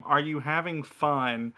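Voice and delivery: ordinary talk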